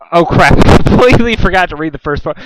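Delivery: real laugh at own mistake; laughing at a slip. Real, not acted. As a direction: chuckle through the oops.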